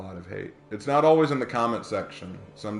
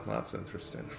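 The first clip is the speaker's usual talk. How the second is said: very soft, understated catchphrase impression; Havoc; 12 dB quieter than usual. Streamer repeating a borrowed line, hushed impression. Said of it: "That was a Havoc line".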